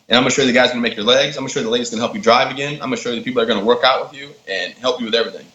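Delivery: fast, eager pitch; fast, eager promise to the injured Marine; eager rapid promise. Retold or imitated. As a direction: rush it out like an excited pitch.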